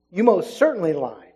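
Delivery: firm stress on "most certainly"; emphatic. Acted. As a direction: lean on "most certainly" as a verdict. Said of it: "it's very emphatic".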